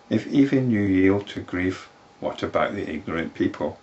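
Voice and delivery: formal storytelling, key words lifted; scripture story reading. A narrator's reading. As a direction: read the old tale aloud with measured emphasis. Reads a sacred story aloud.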